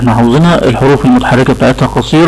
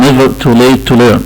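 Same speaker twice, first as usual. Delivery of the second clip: never too late to learn said very slowly; quoting a proverb; much slower than usual. Shown as a demonstration. Teacher quotes an English proverb to students, very slow. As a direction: spell out the proverb slowly for emphasis. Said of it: "والمثل الانجليزي بيقول ايه".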